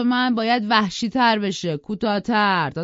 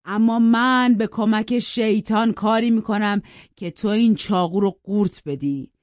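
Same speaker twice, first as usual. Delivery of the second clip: loud, raised raging threats; furious rant; 2 semitones higher, 5 dB louder than usual. Acted. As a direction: threaten them all in a drunken fury. Drunk father raging with knife. (فریاد خشمگین پدر مست رو به همه)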